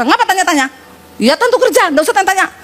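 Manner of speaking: grumpy retort. Retold or imitated. Husband brushing off his wife, curt and grumpy. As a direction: irritably wave off the question.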